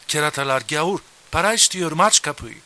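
loud barked Turkish commands, high; angry shouting. Retold or imitated. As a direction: shout through the door like a soldier. Turkish soldiers yelling at door.

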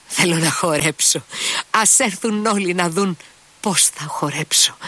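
put-on high, dizzy drunken woman's voice; reeling from the wine, giddy and high; tipsy Grushenka. A narrator's reading. Drunk Grushenka tells Mitya she wants to dance, high and giddy.

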